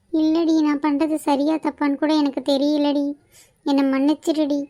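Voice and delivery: tearful, faltering confession; crying. Acted. Sister unsure she is doing right, begging forgiveness, crying. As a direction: apologise helplessly through tears. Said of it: "அழுதுட்டே இருக்காது first".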